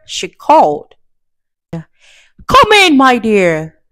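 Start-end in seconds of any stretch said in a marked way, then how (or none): 1.7-3.8 wolf faking a high grandma voice. Acted. The wolf pretending to be grandmother at the door, high fake voice. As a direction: pitch up to pass as grandma. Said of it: "said the wolf in a high voice".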